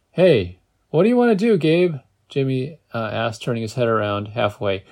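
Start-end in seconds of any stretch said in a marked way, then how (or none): 0.1-1.9 raised, high call to someone behind. A narrator's reading. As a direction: call back loudly to a passenger. Driver calls back to passenger.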